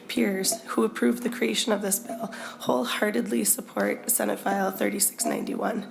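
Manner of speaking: hoarse, croaky voice from a cold; frog voice. Real, not acted. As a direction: speak through a croaky throat. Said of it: "I apologize for my frog voice today".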